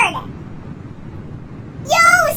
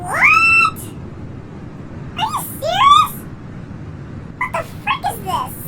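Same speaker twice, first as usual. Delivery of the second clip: shocked disbelief; 9 semitones higher, 3 dB quieter than usual. Real, not acted. Shocked by creepy video.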